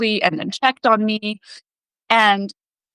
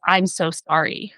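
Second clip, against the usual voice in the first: sorry, soft sympathy; slower than usual. Retold or imitated. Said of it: "immediately that's the tone".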